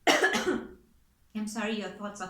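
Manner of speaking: coughing between words; throat catching after a cough; choking on a cough. Real, not acted. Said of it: "I just, like, choked for a second".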